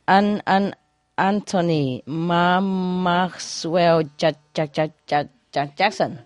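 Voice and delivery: slow, halting stammer on every name; stammering out a full name. Acted. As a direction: stutter through the name. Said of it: "a stammer?".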